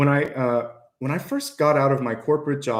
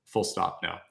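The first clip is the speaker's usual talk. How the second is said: low, soft, final no; full-stop no; 5 semitones lower, 6 dB quieter than usual. Shown as a demonstration. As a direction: shut it down quietly, no room for argument. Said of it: "if you just say".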